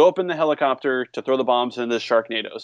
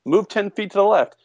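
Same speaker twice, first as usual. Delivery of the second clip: mock casual suggestion; 7 semitones higher than usual. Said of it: "rather than saying".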